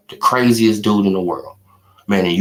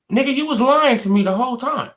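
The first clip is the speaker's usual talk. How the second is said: betrayed bettor; 13 semitones higher, faster than usual. Retold or imitated. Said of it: "It's like".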